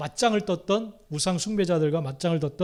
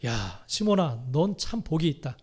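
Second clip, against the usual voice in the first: slow, low and gentle; tender praise; 3 semitones lower, 3 dB quieter, slower than usual. Acted. Jesus tenderly praising Simon for his confession, slow and low. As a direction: speak to him like a proud father.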